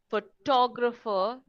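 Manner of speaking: PHOTOGRAPHER leaning on TOG, pho-TOG-rapher; second-syllable stress. Shown as a demonstration. Teacher points out where stress falls, second syllable stressed. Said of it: "the stress is on the second syllable".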